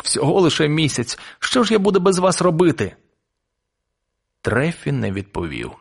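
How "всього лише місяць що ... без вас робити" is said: high, mildly tearful lament; tearful boy. A narrator's reading. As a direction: plead helplessly with a touch of crying. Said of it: "плачучи, відповів хлопчик".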